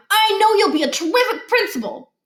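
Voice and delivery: butter him up; flattering kid. A narrator's reading. Boy flattering the new principal, high and sweet.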